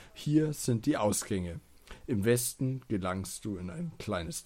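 reading out adventure text, lightly dramatic; game text narration. Acted. Reads the game text aloud. (Spieltext vorlesen)

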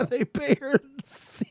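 whispered through a laugh; breathy laughing whisper. Real, not acted.

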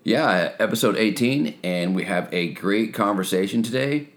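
hoarse, scratchy voice after a night of shouting. Real, not acted. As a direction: talk through a scratchy, worn-out throat. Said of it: "why my voice is a little scratchy".

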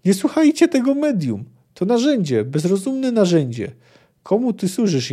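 high, angry accusing cry; furious shout. Acted. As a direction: spit the words at the medium. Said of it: "wrzasnęła Filipa".

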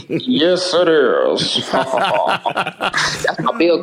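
chuckling through the words; laughing. Real, not acted. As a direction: talk while laughing. Laughing at own joke.

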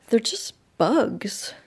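slow, understated put-down; dismissive. A narrator's reading. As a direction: brush off the fright, drawing it out. Dismissive reassurance after scare.

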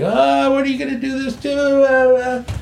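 high-pitched imitation of protesting relatives; mock family outcry. Big family protests the brother's ultimatum at dinner, mock outcry. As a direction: wail like a chorus of upset relatives.

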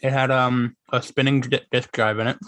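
talking with a mouth full of candy; chewing while talking. Real, not acted. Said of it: "Sorry, I'm eating Whoppers".

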